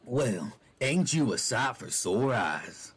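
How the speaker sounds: slow gravelly cowboy drawl, rasped out. Acted. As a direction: roll the words out slow and rough. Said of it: "that's not the voice I gave him before".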